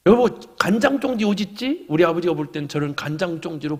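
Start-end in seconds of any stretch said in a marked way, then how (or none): 0.1-1.9 imitating father. Father voiced calling his wife.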